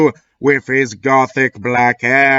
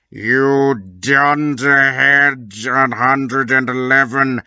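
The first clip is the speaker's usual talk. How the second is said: slow menacing Snape. Acted. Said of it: "shooted Snape".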